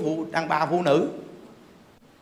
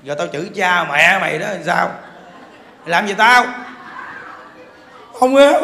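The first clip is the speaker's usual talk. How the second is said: mock husband yell; 5 dB louder than usual. Husband answering wife, acted quote.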